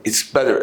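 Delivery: "better" said as "bedder"; a D sound in the middle of "better". Shown as a demonstration. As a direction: soften the double T of "better" to D. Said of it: "ال double T بتنطق D".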